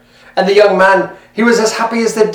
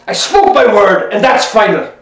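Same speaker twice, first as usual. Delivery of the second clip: stern final word. Acted. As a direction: lay down the law, each word weighed. Husband silencing his wife.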